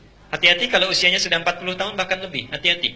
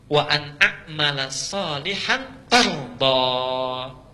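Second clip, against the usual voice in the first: very slow chanted Arabic; Quran recitation; much slower than usual. Acted. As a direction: stretch each syllable in recitation. Reciting verse.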